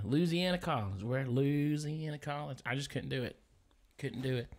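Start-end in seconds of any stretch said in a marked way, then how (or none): 0.0-2.6 mimicking locals, Louisiana squeezed to "Loo-zee-anna". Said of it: "they'd always say".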